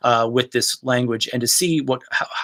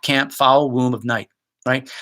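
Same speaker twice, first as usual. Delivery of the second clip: normal talking voice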